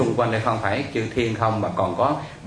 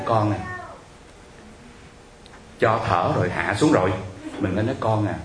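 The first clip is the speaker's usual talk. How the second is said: calm coaxing; 2 semitones lower than usual. Retold or imitated. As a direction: gently talk a distressed caller down. Monk soothes caller, sends her home. (giọng điềm tĩnh khuyên nhủ)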